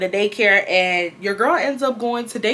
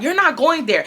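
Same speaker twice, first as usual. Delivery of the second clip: higher-pitched, teasing refusal; mother's retold taunting; 7 semitones higher than usual. Mom banning daughter from the club, taunting. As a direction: lightly imitate a gloating parent. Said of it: "taunting me at this point".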